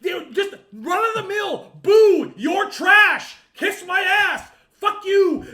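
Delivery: loud, heated rant building up; real angry shouting; worked up rant. Real, not acted. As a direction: get worked up and shout it at the room. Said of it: "I'm getting fucking worked up".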